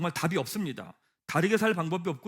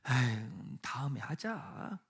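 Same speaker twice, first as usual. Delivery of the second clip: lazy excuse; 5 semitones lower, 7 dB quieter, much slower than usual. Retold or imitated. Imitating a lazy excuse to oneself.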